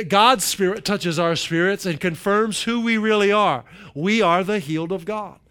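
preacher proclaiming a Bible passage; emphatic scripture reading. Acted. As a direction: read it as a declaration, lifting the key phrases. Reads the passage at length.

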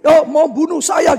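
acted indignant accusation; angry accusation. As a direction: accuse as the aggrieved boy. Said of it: "Orang itu lebih marah lagi".

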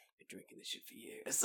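hushed aside breaking into laughter; soft, voiceless mock horror; stunned realisation. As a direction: let it out under your breath, then laugh. Acted shocked realisation, breaking into laugh.

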